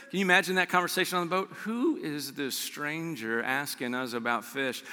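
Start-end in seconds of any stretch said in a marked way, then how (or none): 1.6-4.9 muttered aside. Pretend. Disciples muttering about stranger.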